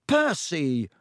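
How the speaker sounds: a mildly angry outburst. Acted. Ron cross at his brother for interrupting, mild anger. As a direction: snap his name in annoyance. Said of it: "said Ron angrily".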